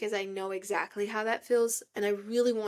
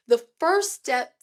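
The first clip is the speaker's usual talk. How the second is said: preachy; 4 semitones higher, 7 dB louder, slower than usual. Acted. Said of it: "I know I sound preachy".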